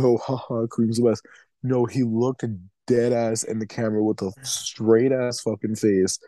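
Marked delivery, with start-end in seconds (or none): 0.0-1.3 joking. Retold or imitated. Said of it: "it wasn't like Adam was joking".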